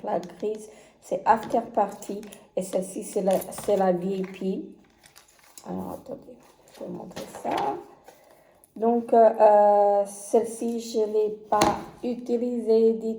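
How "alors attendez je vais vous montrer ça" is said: whispered, much softer aside; whispered aside while fetching something. Real, not acted. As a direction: whisper while busy off to the side.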